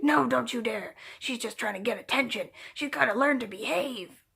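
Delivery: a snapping mock mother forbidding it; cold mock scolding to the boy; stern mother. Voices the cruel mother's refusal.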